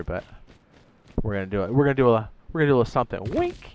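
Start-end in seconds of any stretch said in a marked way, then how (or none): 3.2-3.7 playful wink. Pretend. Playful hint to viewers.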